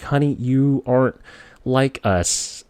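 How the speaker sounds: patronizing teacher, lightly acted; teacher's "honey" putdown. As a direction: let a child down with mock-sweet condescension. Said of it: "that's how she said it".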